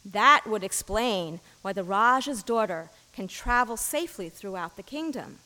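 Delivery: storytelling read-aloud voice; a minister reading a parable aloud; story narration. Acted. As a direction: read the fable to the congregation. Reads a fable aloud.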